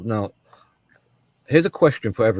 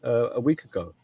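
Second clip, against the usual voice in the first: higher-pitched mock "did you know" reveal; acted news-breaking; 4 semitones higher than usual. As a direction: play someone sharing a surprising tidbit. Acting someone bringing him news.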